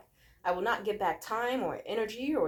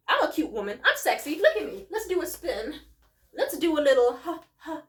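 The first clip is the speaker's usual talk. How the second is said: loud, sassy and strutting; sassy drag queen; 4 semitones higher, 4 dB louder than usual. Pretend. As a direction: sell it like a diva on the runway. Posing, showing off herself.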